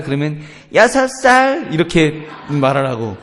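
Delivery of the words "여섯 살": high, loud mock child voice; put-on high-pitched little-kid reply; coached child's answer. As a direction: chirp it out like a rehearsed kid. Parent coaches child's fake answer.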